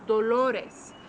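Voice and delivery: dolores as do-LO-res, falling at the end; stress on second syllable. Shown as a demonstration. Teacher repeating the word for pain, dolores stressed do-LO-res. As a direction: land on the LO of dolores. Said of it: "that's pain".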